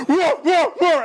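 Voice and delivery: high mock roars; playful monster-dog noises; dog roaring imitation. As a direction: roar like the huge dog hanging out the car. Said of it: "And he's just like".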